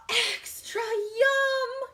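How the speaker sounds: drawn-out yum. Acted. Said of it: "savoring dessert".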